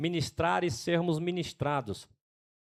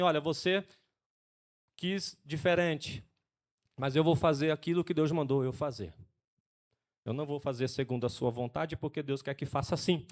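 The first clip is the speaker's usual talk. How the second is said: gentle firmness; 3 semitones lower, 4 dB quieter than usual. Retold or imitated. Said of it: "eu falo assim com a Sabrina".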